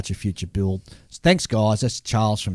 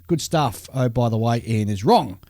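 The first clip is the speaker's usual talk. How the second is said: letter read aloud; 3 semitones higher than usual. Acted. Reads a listener letter aloud.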